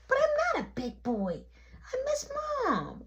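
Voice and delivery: put-on high, whimpering little-boy voice; imitating a tearful kid's protest; mock crying child. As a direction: whine it, ending in a wail. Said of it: "Stop crying".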